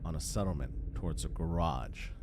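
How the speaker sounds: steady descriptive narration over music; game master scene setting. Acted. Game master describing the opening shot to players, measured narration.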